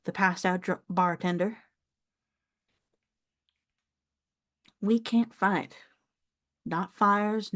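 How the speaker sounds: lightly voiced older Southern farm woman; a hint of a proud Southern elder; proud elderly countrywoman. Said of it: "like, elderly woman who has pride".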